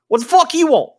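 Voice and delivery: high, loud, furious little dwarf; squeaky enraged dwarf yelling from below; angry dwarf. Acted. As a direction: bark it up at him like a pint-sized brawler. Dwarf snaps at the party.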